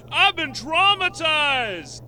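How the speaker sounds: whiny. Acted. Whiny victim drawl.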